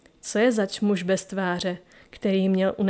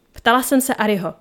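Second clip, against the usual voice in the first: louder, sharp rebuke; snapping at him; 2 semitones higher, 5 dB louder than usual. Acted. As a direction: cut the lion off, annoyed. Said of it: "okřikla ho Cora". (ostře a hlasitě ho okřikne)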